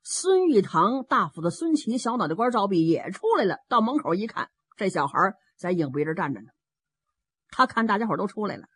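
ordinary delivery

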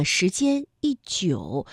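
slow phrase with "一" falling as yì; 一 in fourth tone. Shown as a demonstration. Teacher shows the rule to learners, "一" falling yì. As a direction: give "一" a fourth tone before 久. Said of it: "一字呢我们依然读一".

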